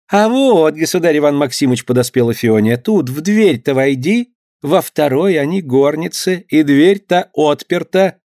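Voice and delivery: high, slow fawning servant; eager servant woman. Acted. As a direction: wheedle him toward the door.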